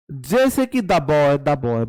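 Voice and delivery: put-on "the boy" said as da boy; the pronounced da. Shown as a demonstration. Teacher modelling "the boy" for the class, with "the" said as da. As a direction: say "the" as short da before boy. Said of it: "मैंने इसको the boy बोला है".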